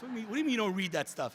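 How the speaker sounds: fast, stumbling incredulous comeback; mock baffled, rushing the repeated question; retold disbelief. Speaker questioning the commentator who ignores replies, mock incredulous. Retells own disbelief at the answer.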